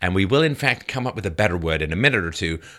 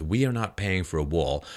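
mock protester shout; 4 semitones lower, 6 dB quieter than usual. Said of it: "who are they identifying with".

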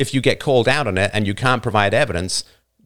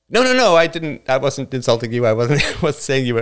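mock defensive whine; 4 semitones higher than usual. Mocking the listener's excuse.

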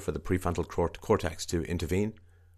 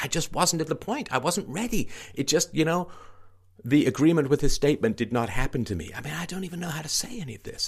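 1 mocking whine; 9 semitones higher than usual. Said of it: "She's like".

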